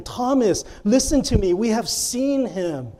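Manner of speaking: measured, insistent convincing; earnestly persuading. Acted. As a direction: plead with a doubter, phrase by phrase. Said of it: "they were earnestly persuading him".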